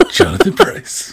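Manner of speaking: delivery in the style of a TV ad. Trading impressions with another speaker: Jonathan Pryce impression. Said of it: "That's pretty good".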